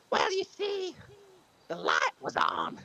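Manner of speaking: hammed-up moth voice; moth punchline. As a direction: drop the moth's reveal slowly. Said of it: "and he goes".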